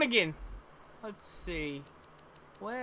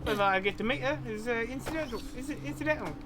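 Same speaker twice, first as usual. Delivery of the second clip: put-on Cockney-Australian accent. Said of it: "I'm doing a mixture of Cockney and Australian".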